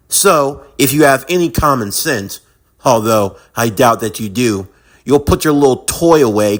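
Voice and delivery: low, controlled threat; cold contempt. Acted. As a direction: talk down to them in a low, steady voice.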